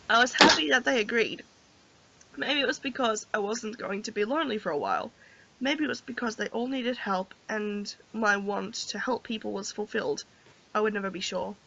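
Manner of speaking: soft, low-key storybook reading; story narration. A narrator's reading. Player reads the heroine's thoughts, soft story narration. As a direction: read her inner thoughts quietly and evenly.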